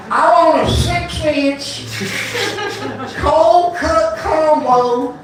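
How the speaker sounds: very slow, high twangy redneck drawl; redneck customer. Retold or imitated. Redneck customer ordering a sub, slow drawling accent. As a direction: order like a stubborn redneck at the counter. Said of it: "decipher the redneck".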